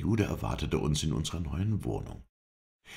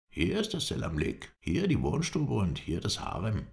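pompous, as if showing a palace; solemn tour-guide pride, slightly raised; mock gravity; 8 semitones higher than usual. A narrator's reading. Caretaker shows the shabby rooms, with mock gravity. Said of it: "erklärte er mit solcher Gravität".

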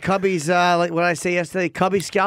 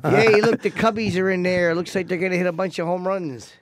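put-on Chicago accent. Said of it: "What, what, what dialect is that?".

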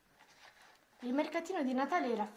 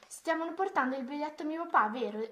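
put-on higher, louder, eager child's question; cheerful, amused question; 5 semitones higher, 5 dB louder than usual. A narrator's reading. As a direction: ask it with lightly acted glee. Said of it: "rise Mia". (allegro e divertito)

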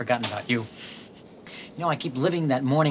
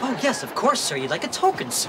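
sarcastic; 8 semitones higher than usual. Acted. Mocking servile clerk.

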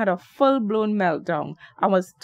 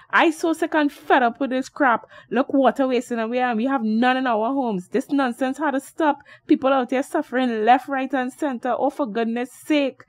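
higher, exasperated ranting; fed-up shout; 4 semitones higher than usual. Acted. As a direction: vent it all, sick of it. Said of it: "shouted Derek".

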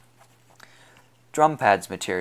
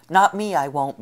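loud, higher defiant shout; 7 semitones higher, 6 dB louder than usual. A narrator's reading. Gang leader shouts back at Logan, loud defiant yell. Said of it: "Billy shouted".

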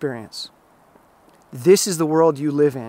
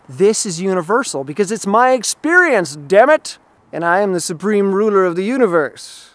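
mock dogmatic rant; 3 semitones higher, 6 dB louder than usual. Dogmatic dieter ranting.

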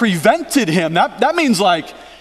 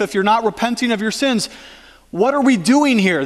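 higher-pitched, urgent acted-out protest; John the Baptist; 3 semitones higher than usual. John objecting to baptizing sinless Jesus, troubled protest. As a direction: push back, puzzled and insistent.

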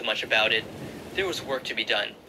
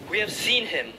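higher, breathless rush; gasped; 7 semitones higher than usual. Acted. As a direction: blurt it out, winded. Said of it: "Andrew gasped".

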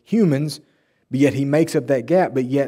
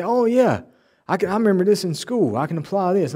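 higher-pitched moment of recall; imitated sudden recognition; 6 semitones higher than usual. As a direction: act out a student remembering. Voices graduate suddenly remembering lessons.

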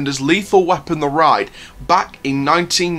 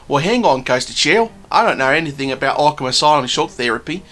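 lightly put-on Australian accent; a half-hearted Australian twang. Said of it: "Terrible Australian accent".

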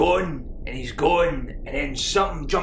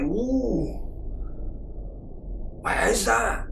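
much higher, shouting in alarm; 9 semitones higher, much slower than usual. Acted. Wee guy spooked by the second noise, high alarmed shout. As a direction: yelp it out, spooked.

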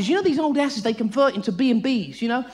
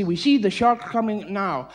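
slow, lower presenter voice; documentary narrator; 5 semitones lower, slower than usual. Retold or imitated. Presenter watching the shark cage, slow low narration. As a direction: draw it out like a nature show. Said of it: "they say".

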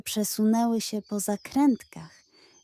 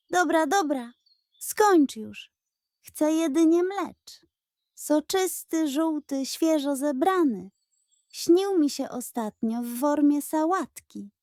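higher, impatient goat voice; goat Klementyna; 5 semitones higher than usual. Acted. Goat cutting off the pug's flattery, impatient. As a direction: brush him off, demanding dandelions.

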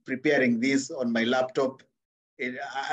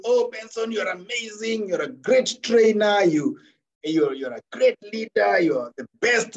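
higher, lightly hammed-up flattery; mock gushing praise; 4 semitones higher than usual. People coming to praise the trainer, imitated mild gushing. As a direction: pile on compliments in a lifted voice, mildly mocking. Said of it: "and praise you".

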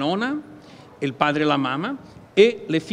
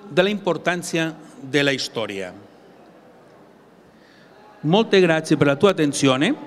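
Italian spoken with a Catalan accent; non-native Italian with a Catalan accent. Real, not acted. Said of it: "scolpare il mio italiano".

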